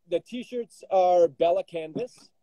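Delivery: muffled, as if through a wall. Real, not acted. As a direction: speak from inside a pot. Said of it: "I sound muffled".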